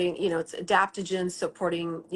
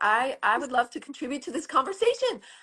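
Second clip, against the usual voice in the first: high, put-on dog voice; 7 semitones higher than usual. When a dog chimes in during the conversation, the speaker starts voicing the dog. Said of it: "She's like".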